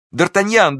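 very high, loud cry of «Д'Артаньян»; desperate call. A narrator's reading. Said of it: "вскричала она". (отчаянный зов «Д'Артаньян»)

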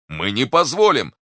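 high, loud refusal; protesting cry. A narrator's reading. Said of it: "вскричал Портос". (громкий протест)

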